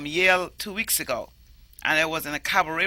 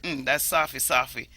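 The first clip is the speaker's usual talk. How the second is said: Jamaican market talk; 4 semitones lower than usual. Retold or imitated. Touching fruit at a market stall, Jamaican accent. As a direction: squeeze the fruit and say softy. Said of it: "and I just said".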